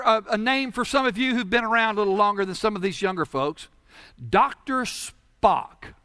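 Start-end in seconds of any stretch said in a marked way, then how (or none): 4.3-5.9 slow deliberate naming. Shown as a demonstration. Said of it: "Not Spock, but Spock".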